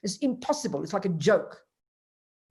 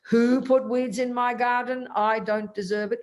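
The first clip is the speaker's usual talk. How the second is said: mock indignation; 3 semitones higher than usual. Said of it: "I would never say".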